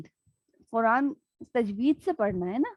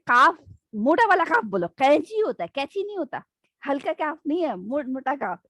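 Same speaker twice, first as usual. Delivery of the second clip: mildly raised, scolding teacher voice; irritated teacher; 3 semitones higher than usual. Retold or imitated. Urdu teacher scolds students about the qaf sound. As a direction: correct the kids with exasperation. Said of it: "وہ بہت چڑتی تھی".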